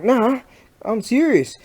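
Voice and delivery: high, loud retold insistence; insistent retort. Telling a mate about the oil blast, high and loud insistence. Retold reply after laughing.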